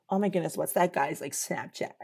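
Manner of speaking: hushed imitation of an admirer, fading out; mock swooning. Imagined girl asking after a guy, mock swooning. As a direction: murmur it like a secret crush.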